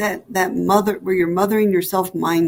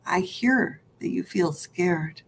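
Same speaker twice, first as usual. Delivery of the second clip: tender echo; 5 dB quieter, slower than usual. Pretend. Higher self echoes back.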